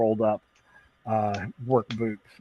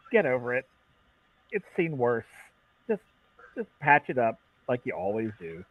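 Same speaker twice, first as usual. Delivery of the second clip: a touch of cool calm, softer; calm dismissal; 4 dB quieter than usual. Acted. Talia brushing off the upset mechanic: calm, softer. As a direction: brush him off calmly. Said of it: "She's the calm one".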